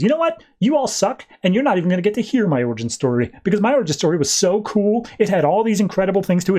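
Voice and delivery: high, whiny, indignant outburst; a spoiled supervillain throwing a tantrum; petulant villain rant. Retold or imitated. Egg villain snapping at the heroes, whiny high rant.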